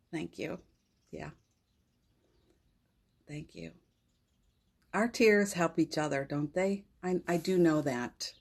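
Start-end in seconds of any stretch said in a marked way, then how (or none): 0.0-3.7 tearful thanks. Real, not acted. Crying, thanking the audience.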